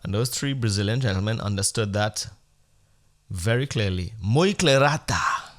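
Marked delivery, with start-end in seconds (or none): 4.2-5.5 slow, exaggerated mock-Portuguese. Imitating how Brazilians would say it, mock Portuguese. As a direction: drawl it out like a fake foreign phrase. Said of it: "as they would say".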